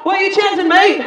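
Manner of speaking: badly attempted British accent; awful British accent. American asks the crowd about chanting in an awful British accent. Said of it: "You can hear my awful accent".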